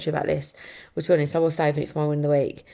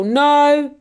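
put-on toddler voice; 9 semitones higher, 7 dB louder than usual. Toddler son voiced in story.

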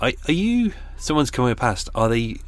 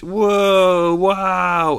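sarcastic wow; 9 semitones higher, 6 dB louder than usual. Pretend. Mocking midnight revellers, hammed-up wow. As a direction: fake awe, much higher and louder.

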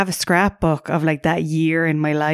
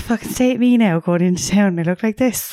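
lightly exaggerated Clonmel accent; 3 semitones higher than usual. Shown as a demonstration. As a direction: do a jokey impression of yourself in Clonmel accent. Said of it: "I put on a really Clonmel accent".

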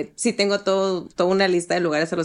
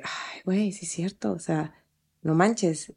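husband realizing, quiet; 2 semitones lower, 6 dB quieter than usual. Retold or imitated. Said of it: "se queda él pensando".

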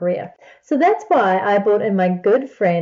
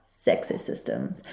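slow sultry whisper of "sexy systems"; 9 dB quieter, slower than usual. Acted. Host teases listeners with a slow whispered "sexy systems". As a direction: breathe "sexy systems" slowly like a secret.

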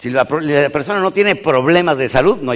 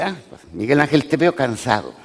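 mocking taunt; 4 dB quieter than usual. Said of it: "Ángel en venganza me dice".

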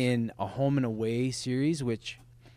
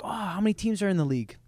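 curious caller; 6 semitones higher, faster than usual. Retold or imitated. Callers questioning ticket seller.

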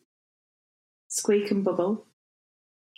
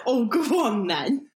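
eager yielding; 4 semitones higher than usual. Shown as a demonstration. Guest accepting tea, giving in gladly with a lift. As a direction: go on then, lifted and brighter. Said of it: "You respond to tea by saying tea".

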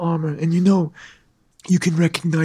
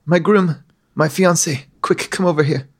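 princess calling out. Acted. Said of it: "she calls out to you".

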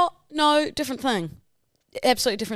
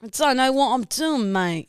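higher attempt at a London lad accent; copied London accent; 5 semitones higher than usual. Shown as a demonstration. Copying co-host's London accent demo, a better attempt. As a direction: echo the London accent carefully.

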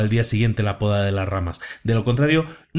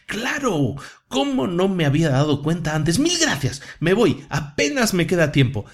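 excited; 5 semitones higher than usual. Acted. Sid suddenly understands.

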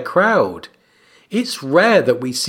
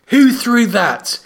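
put-on indignant boy king, raised pitch; mild narrated scream; 7 semitones higher than usual. A narrator's reading. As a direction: draw out a higher, restrained scream of outrage. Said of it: "Joffrey screamed".

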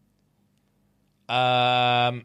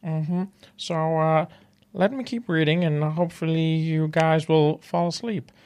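lightly voiced Kermit telling a bedtime story; mild Kermit hoping the listeners fall asleep; Kermit the Frog impression. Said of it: "He's saying a bedtime story".

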